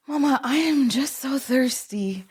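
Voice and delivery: playful imitation of a child stalling bedtime; imitated little girl. Mom imitating her six-year-old avoiding bed, lightly childlike plea. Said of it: "she would come out and".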